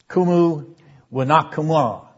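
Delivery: "Kumu, wanakumua" with a stressed oo sound; Hebrew sounded out. Shown as a demonstration. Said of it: "You hear the, the emphatic U".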